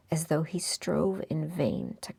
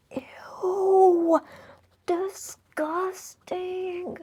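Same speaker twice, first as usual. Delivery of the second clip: disgusted; 14 semitones higher, 7 dB louder, much slower than usual. Real, not acted. Reader reacts to the suitor.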